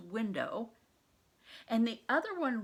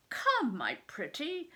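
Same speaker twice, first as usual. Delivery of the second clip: higher, slow wheedling; wheedling nurse; 6 semitones higher, 3 dB louder than usual. Acted. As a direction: coax gently, drawn out. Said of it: "her wheedling".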